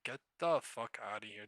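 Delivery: normal talking voice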